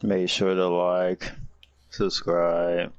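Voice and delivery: slow, drained and lax; tired voice. Real, not acted. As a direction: drag the words out, worn out. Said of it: "you sound tired as hell".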